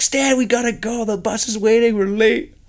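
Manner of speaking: high, hurried call through the door; urgent wake-up call. Retold or imitated. Teammate at the door urging Stan to the bus, hurried high call. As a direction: rouse a sleeping teammate, fast.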